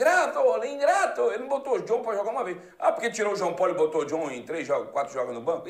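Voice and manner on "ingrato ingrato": put-on shrill, very high, loud, angry accusing yell. Telling a football story about the reserve goalkeeper, retelling a yell. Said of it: "Aí ele começou a gritar".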